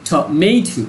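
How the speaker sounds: টমেটো with the MA syllable pressed; stress on MA. Shown as a demonstration. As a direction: punch the middle MA of টমেটো. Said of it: "practice with me".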